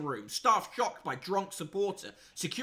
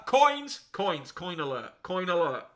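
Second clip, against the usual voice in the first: mock alarm; 5 dB louder than usual. Announcing the coin ad gleefully.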